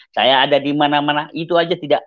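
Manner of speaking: usual speaking voice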